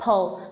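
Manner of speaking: "pull" as one quick pl-uh blend; sounds said together. Shown as a demonstration. Teacher demonstrating the cluster, quick blended "pull". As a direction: make p and l almost simultaneous in "pull". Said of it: "hai cái âm này gần như cùng một lúc".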